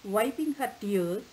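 put-on measured storytelling read for children; expressive read-aloud voice; story narration. A narrator's reading. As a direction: tell the fable clearly and gently to a class.

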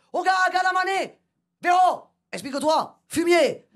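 high mock call with an insult; hammed-up tribal call; tribesman calling out. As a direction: shout it like a tribesman. One man calls out.

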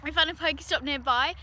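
talking through chocolate; words round a mouthful of chocolate; mouth full of chocolate. Real, not acted. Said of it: "I've just got chocolate in my mouth".

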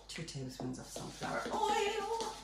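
silly high voice. Pretend. Baker adding oil for the viewers, silly high voice. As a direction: repeat it high and playful, drawing out "oil".

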